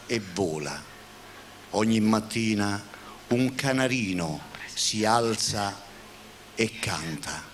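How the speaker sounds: slow, solemn, swelling recital; theatrical swelling poetry reading. Acted. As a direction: recite it like a grand poem. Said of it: "voglio recitarla una poesia".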